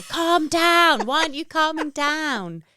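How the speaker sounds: high, loud exasperated shouting; mock frantic yell. Parent shouting at the kids to calm down, loud and frantic. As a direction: bark orders to calm down while panicking.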